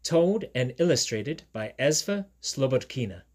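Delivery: emphatic British title reading; put-on British storyteller voice; British accent like Steve. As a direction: announce the book in a London-style British accent. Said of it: "I do a sort of British accent".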